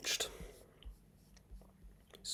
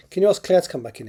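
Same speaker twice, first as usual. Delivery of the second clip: raised Scottish voice, louder; Scottish accent; 6 semitones higher, 8 dB louder, faster than usual. Acted. Mackenzie asks Marianne to fetch Claire, in a Scottish accent. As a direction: lift it in a Scottish brogue.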